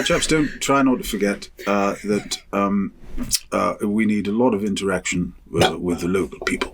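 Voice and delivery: lightly imitated BBC official; put-on BBC accent. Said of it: "you're doing that accent".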